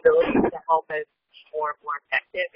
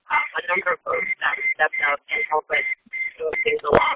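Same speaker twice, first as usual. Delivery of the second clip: muffled car headset audio; talking through a muffled headset; bluetooth headset mic. Real, not acted. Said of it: "muffled and unclear".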